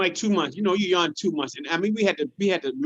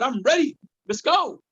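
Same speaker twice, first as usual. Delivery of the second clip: hyped, higher voice; eager to fight; pumped up; 5 semitones higher than usual. Retold or imitated. Boasting back in neighborhood.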